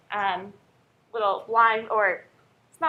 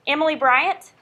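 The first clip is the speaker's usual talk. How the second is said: calling roll; 3 semitones higher, 5 dB louder than usual. Real, not acted.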